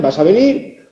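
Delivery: vas a venir as a mild order; order intonation. Shown as a demonstration. Teacher demonstrating an order, imperative tune on vas a venir. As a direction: give vas a venir as a command, venir held up. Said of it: "puede ser una orden".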